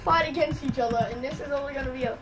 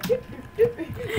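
imitated game sound; 10 semitones higher, slower than usual. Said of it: "sound that's like".

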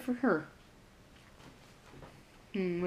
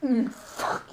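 eating gross jelly beans. Real, not acted. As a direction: mouth full, slow and thick. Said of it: "It's still in my mouth".

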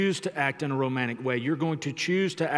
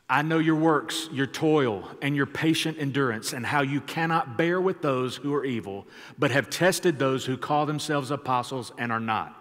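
louder, raised reading of Revelation; scripture reading; 3 dB louder than usual. Acted. Pastor reading scripture aloud to the church, proclaiming. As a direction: proclaim the verses to the standing church.

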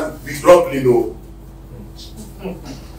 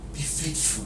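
much softer, spoken almost to himself; soft refrain; 15 dB quieter, slower than usual. Real, not acted. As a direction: drop the voice and let it sink in. Preacher repeating the refrain softly.

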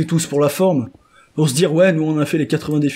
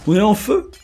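rising higher and louder with each question; hyped-up joking; 8 semitones higher, 4 dB louder than usual. Pretend. Player joking about being on fire, escalating mock hype. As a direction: build the silly questions toward a shout.

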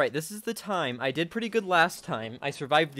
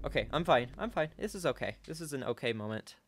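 nervous self-soothing; 6 dB quieter than usual. Real, not acted. Gamer stuck with sword out, quietly reassuring themself. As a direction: talk yourself down under your breath. Calming themself under game pressure.

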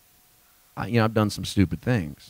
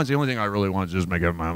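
mumbled, fast, softer pious prayer; mock pious churchgoer; 4 semitones lower, 4 dB quieter, much faster than usual. Mocking timid believer praying to God, softer and fast. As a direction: lightly mimic a timid holy saint. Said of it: "we tried to be so holy".

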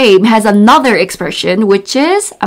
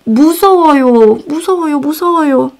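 mock scared; 3 semitones higher, much faster than usual. Shown as a demonstration. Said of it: "And then you can say".

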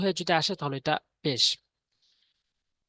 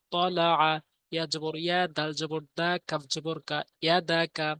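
level, rhythmic letter-by-letter recitation; Quran spelling drill. Shown as a demonstration. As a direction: spell each syllable, then join them into the word.

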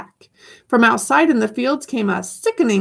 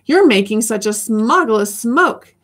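croaking cry; 3 semitones higher than usual. Acted. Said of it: "he cried with a crufulous croak".

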